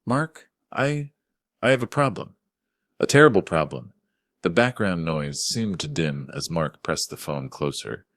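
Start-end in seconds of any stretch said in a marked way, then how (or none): 0.1-3.9 put-on high, wavering old-man panic; shaky senile panic, pitched up high; trembling panic. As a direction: fake a frail old man's fear. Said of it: "I let my voice tremble".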